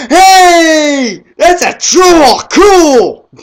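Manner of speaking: put-on high loud squeal of a thrilled toddler; excited little kid. Mocking a four-year-old watching the movie, high excited squeal. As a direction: shout it like a four-year-old seeing a troll. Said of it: "any four-year-old that would go".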